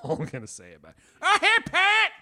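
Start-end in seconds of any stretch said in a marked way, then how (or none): 1.2-2.1 high, loud imitation Asian accent; comical Asian accent. Imitating a phone caller from work, comical Asian accent. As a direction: yelp it in a mock Asian accent. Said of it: "with a comical Asian accent".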